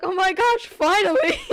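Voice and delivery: hammed-up imitation of a friend's delight; imitating Tim. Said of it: "Tim's like".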